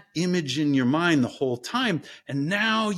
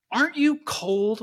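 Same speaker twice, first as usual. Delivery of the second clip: Morozko; 7 semitones higher than usual. Retold or imitated. Morozko questions girl again.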